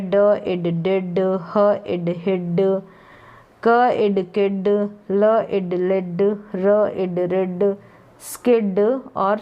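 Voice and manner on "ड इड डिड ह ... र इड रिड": slow, stretched sounding-out; drawn-out phonics. Shown as a demonstration. Teacher blending letter sounds for learners, drawn out. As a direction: sound out each part slowly, then blend. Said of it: "खींच के मैंने थोड़े long बता दिए हैं".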